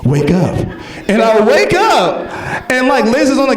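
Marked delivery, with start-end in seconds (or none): 0.0-0.6 low, measured cat voice; lightly voiced talking cat. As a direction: speak low as a cat in a dream. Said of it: "the cat looks over to me and is like".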